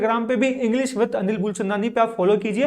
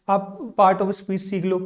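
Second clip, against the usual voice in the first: slow emphasis; 3 semitones lower, 3 dB quieter, much slower than usual. Shown as a demonstration. Teacher slowly spells out term.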